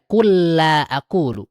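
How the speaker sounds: slow, "Kul la" with the l doubled; recited example. Shown as a demonstration. Teacher recites the verse example. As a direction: stretch it out evenly. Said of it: "katakanlah tidak".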